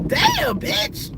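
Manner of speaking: high squeal of shock; shocked high-pitched damn; surprised. Retold or imitated. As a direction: yelp it way up high. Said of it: "I'm like".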